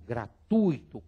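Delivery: gratuito as gra-tui-to; listing correct forms. Shown as a demonstration. Teacher lists the correct form gratuito. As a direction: say gratuito in three syllables. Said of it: "Então, caso fortuito".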